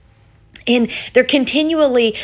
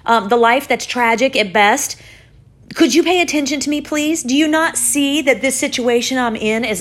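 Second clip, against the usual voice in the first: pretend yell to God; 4 semitones higher than usual. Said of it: "or maybe even yell".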